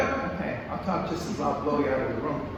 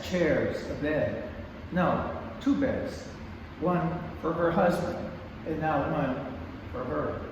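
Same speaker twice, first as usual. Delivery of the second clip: poem reading. Acted. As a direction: read the poem with weight. Reads her poem aloud.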